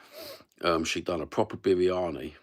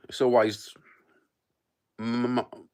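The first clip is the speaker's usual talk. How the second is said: breathy unvoiced whisper; 5 semitones higher, 4 dB louder than usual. Real, not acted. Streamer suddenly whispers to his chat, whispering.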